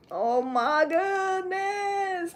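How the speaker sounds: high, very drawn-out wail; hammed-up dread, held long; dramatic dismay. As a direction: stretch it into a long high whine. Dreads tomorrow's Scorpio reading.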